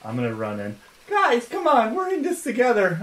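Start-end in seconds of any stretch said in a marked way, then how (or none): 1.1-3.0 loud, high pleading shout; calling out. Acted. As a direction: shout to break up the fight. Calling out to stop fight.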